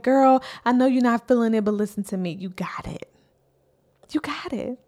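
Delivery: friend's pep talk. Pretend. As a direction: whisper the reassurance to her. Friends hyping her up, be like.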